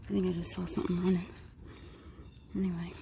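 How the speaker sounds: breathless from the walk; puffing between words; out of breath. Real, not acted. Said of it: "Don't mind me if I'm out of breath".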